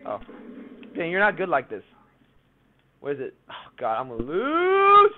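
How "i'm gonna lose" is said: frantic yelling. Real, not acted. Panic, gun missing.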